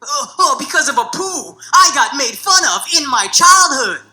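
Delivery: mock self-pitying whine; mock whiny complaint. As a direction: whine like a pampered millionaire. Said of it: "these fucking brown A-list millionaires".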